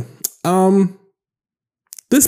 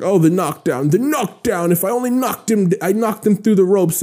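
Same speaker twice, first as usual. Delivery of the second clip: imitating a fighter's higher-pitched protest; mock protesting; 5 semitones higher than usual. Podcaster mimicking the losing fighter's knockdown excuse, mock protesting.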